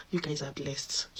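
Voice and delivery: hushed, secretive whisper; whispered aside. Real, not acted. Confiding compliment to viewers.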